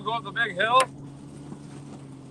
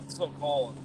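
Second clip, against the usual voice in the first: shivering; 7 semitones lower, 5 dB quieter than usual. Real, not acted. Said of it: "It's hard to talk".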